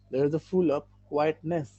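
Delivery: very slow repeat at a gentler level. Shown as a demonstration. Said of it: "কোয়াইটনেস".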